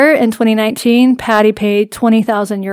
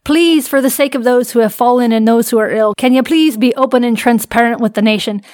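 put-on Irish-accented plea from a quote. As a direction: keep up the put-on Irish brogue. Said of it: "I should do this in an Irish accent".

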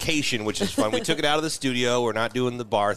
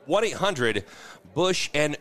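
infomercial; 3 semitones higher, slower than usual. Pretend. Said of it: "we got a new product we're releasing".

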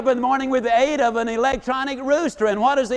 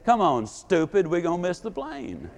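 mild mock scolding; 5 semitones lower, 4 dB quieter than usual. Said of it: "verbatim said".

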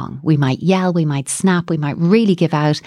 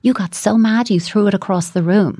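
empathic parent; 4 semitones higher than usual. Shown as a demonstration. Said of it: "if we can come in and go".

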